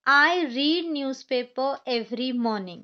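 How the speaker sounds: very slow, word by word; slow example sentence. Shown as a demonstration. Teacher reading an example sentence slowly to students. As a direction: read it out slowly for the class. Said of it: "हम इसे पढ़ेंगे read".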